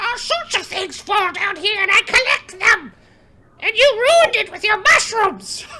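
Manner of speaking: put-on very high, very loud, shrill old goblin crone voice. Game master voicing a goblin woman to the players, in an old goblin woman voice. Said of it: "An old goblin female".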